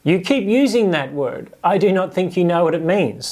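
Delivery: a lighter echo of the swashbuckler line; movie quote again. Retold or imitated. Preacher putting the movie line in Jesus' mouth, lightly voiced. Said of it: "That's what Jesus is saying".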